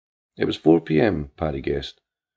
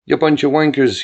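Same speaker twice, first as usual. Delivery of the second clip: louder, higher mock yell of an angry old man; imagined dad shouting the odds; 5 semitones higher, 7 dB louder than usual. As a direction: hurl it like the furious father. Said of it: "he'd be yelling".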